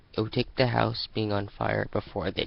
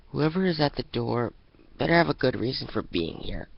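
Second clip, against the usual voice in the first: muttered grumble; 4 semitones higher, 6 dB louder than usual. Acted. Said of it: "she muttered".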